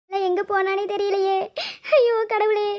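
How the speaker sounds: weeping over the lost daughter; crying. Acted. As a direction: sob the words out. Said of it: "அழாத மைனி". (அழுகையுடன்)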